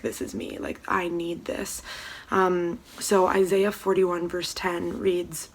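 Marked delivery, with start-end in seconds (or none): 0.0-1.8 hushed inner thought. Retold or imitated. Reading a verse, she quietly recalls thinking. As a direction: murmur it like a private realization. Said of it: "I was like".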